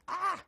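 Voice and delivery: sharp, high cry of pain; sudden loud "ah!"; pained yelp. Real, not acted. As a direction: yelp from touching something too hot. Burns fingers on hot pizza.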